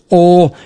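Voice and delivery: "Ol" said with no H, just the vowel and L; silent H. Shown as a demonstration. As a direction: drop the H in "Ol". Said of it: "H is silent".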